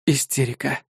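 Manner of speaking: soft whispered verdict. A narrator's reading. Officer whispers his diagnosis to himself. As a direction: breathe the word under your breath. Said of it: "прошептал я".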